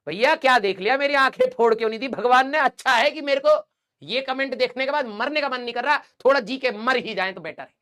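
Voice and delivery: theatrical lament at the class; mock despair. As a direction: wail as if the comment blinded you. Teacher reacts to shocking comment.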